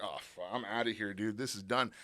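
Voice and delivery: low, fast, worried mutter to himself; quick dread under the breath, pitched low and soft; a scared aside, low and rushed; panicked inner voice. Retold or imitated. Thinks he's being thrown out.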